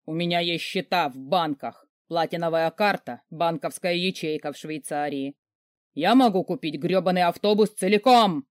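от спокойного перечисления к громкому крику; нарастить до крика на последней фразе; заорал. Acted. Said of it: "заорал мой фальшивый муженёк". (великан хвастается, срываясь в крик)

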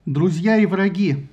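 slow, loud call to the armies; roaring rallying speech. A narrator's reading. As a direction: address the whole field, slowly. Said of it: "обратился к войскам Гектор".

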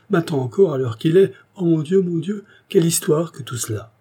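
a fussy man coming apart as he talks; flustered panic. Acted. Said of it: "Le chevalier remarqua qu'il paraissait fort effaré".

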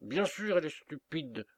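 high cluck on the first words, then sneering; clucking turkey. Acted. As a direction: gobble it out smugly like a turkey. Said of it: "gloussa le dindon".

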